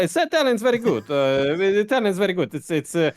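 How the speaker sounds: playful put-on Italian accent. Shown as a demonstration. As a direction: ham it up as an Italian. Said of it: "Oh, maybe Italian".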